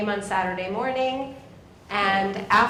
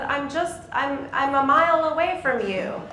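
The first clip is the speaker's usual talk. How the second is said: higher, louder imitation of an old man phoning; raised phone voice; 5 semitones higher, 4 dB louder than usual. Dad explains to his friend on the phone, loudly. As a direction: call it down the line to someone hard of hearing. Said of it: "two ninety-somethings talk on the phone".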